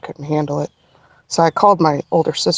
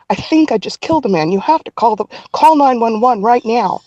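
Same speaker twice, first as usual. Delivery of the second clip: insistent, mildly frantic retelling; retold panic; 3 semitones higher than usual. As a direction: press the plea urgently, as if not being understood. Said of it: "clearly I'm hysterical".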